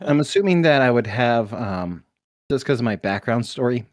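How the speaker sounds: mouth full. Real, not acted. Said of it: "Sorry, I got popcorn in my mouth".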